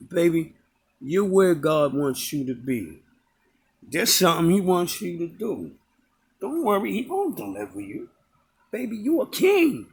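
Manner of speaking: lightly voiced gentle old lady; soothing, reassuring words; imitating tender blessing. Old lady blessing the beggar, tender and reassuring. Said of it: "that is exactly how she said it".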